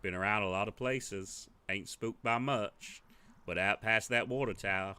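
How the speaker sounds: lightly voiced weathered local, slow and guarded; a hint of a wary old-timer telling of the fire; gruff villager. Villager telling the players about the fire, lightly gruff. Same NPC continues.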